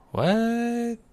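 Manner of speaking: high, sudden cry of surprise; startled what. Real, not acted. Gamer yelps as mom drags the baby off, startled. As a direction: yelp it out in shock.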